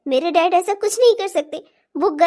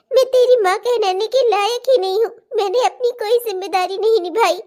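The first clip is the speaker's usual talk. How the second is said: mother crying as she apologises to her son; tearful apology; 3 semitones higher than usual. Acted. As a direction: beg forgiveness through tears.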